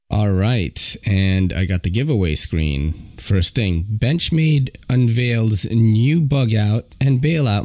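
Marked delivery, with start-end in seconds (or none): 3.8-7.6 cracking voice. Real, not acted. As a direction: voice breaking mid-read. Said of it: "my voice is being weird right now".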